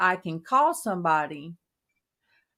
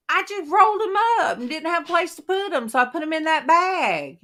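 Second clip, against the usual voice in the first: higher, fast, defensive explaining; higher rushed mom defending the corn chips; flustered excuse; 9 semitones higher, 4 dB louder, faster than usual. Retold or imitated. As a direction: rush the excuse out, caught red-handed. Retold defence to daughter.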